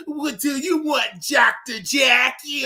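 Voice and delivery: high, loud cartoonish mock yell; cartoon character voice. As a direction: squawk it like a cartoon. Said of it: "Bravo Con over there being stupid".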